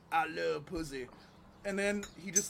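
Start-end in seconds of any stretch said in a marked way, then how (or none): 0.1-1.1 slow imitation of an Alabama comic; Alabama accent. Retelling the open-mic comic's punchline, slow Alabama accent. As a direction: draw the words out, Alabama style. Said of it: "sounded like he was from fucking Alabama".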